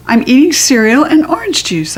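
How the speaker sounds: put-on high proud kid voice; chirpy little girl. Junie B quote.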